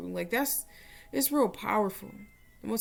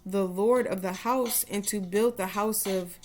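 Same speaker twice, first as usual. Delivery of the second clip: prayer. Shown as a demonstration. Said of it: "I said I was gonna put it in English first".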